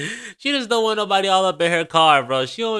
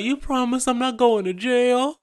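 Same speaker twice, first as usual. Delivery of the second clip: put-on higher, pleading little-kid voice; whiny toddler; 6 semitones higher than usual. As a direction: mimic a scared two-year-old begging. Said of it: "It just comes".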